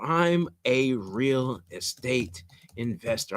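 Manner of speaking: slow and soft, as if typing each word; slow dictation. Shown as a demonstration. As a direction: spell it out slowly while typing. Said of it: "I'm typing it out now".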